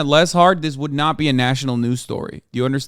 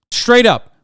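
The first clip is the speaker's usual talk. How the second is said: loud, high, furious; shouted, much higher and louder; angry shout; 8 semitones higher, 7 dB louder than usual. Real, not acted. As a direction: bark it out in real outrage. Shouted repeat in anger.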